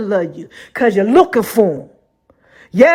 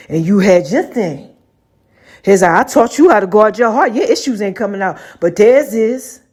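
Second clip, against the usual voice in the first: God's lower voice; 4 semitones lower than usual. Retold or imitated. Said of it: "he was like".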